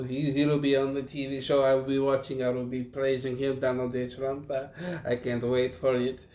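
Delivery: mock-German accent turning cartoon Dracula; attempted German accent. Co-host showing off his accent about the TV debate, attempted German accent. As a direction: redo the bad German accent deliberately. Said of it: "I was trying to go for a German accent".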